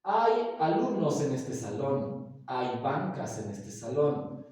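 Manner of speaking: slow, clear teacher example; slow classroom demonstration; slow example sentences. Shown as a demonstration. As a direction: spell out each example slowly for the class. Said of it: "la palabra hay".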